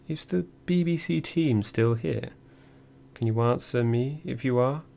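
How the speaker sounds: embassy man calling down the corridor to the prisoners; very English voice. Retold or imitated. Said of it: "a very English voice echoing down the corridor".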